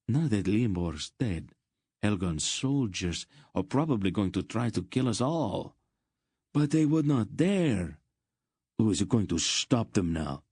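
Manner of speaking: a lightly voiced frightened townsman; shaken merchant. A narrator's reading.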